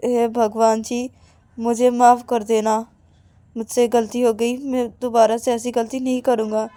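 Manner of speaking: slow, deliberate apology; reciting aloud. Acted. Girl begging God's pardon as she was taught, slow loud recital. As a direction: recite it slowly, as an out-loud prayer. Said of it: "ज़ोर ज़ोर से बोलती है".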